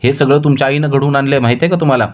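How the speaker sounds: wife angry that the puja was held behind her back, answering her husband heatedly. Acted. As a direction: snap back at the husband, fed up. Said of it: "ती चिडते आणि म्हणते".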